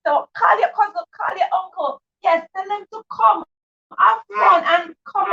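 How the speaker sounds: high, eager hype to the viewers; rally everyone to come join; excited call-out. Real, not acted. Host hyping her live stream audience, excited call-out.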